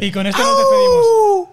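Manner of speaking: high, loud laughing through the words; laughing sign-off. Real, not acted. Host closing the episode amid chaos, laughing hard. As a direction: wrap it up while cracking up.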